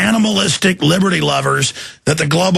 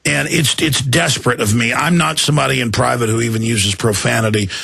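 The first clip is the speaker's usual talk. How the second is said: lower, subdued apology; real sincere apology; 4 semitones lower than usual. Real, not acted. Host apologizes to wife and children for swearing, sincerely. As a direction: pull back and own up to the outburst.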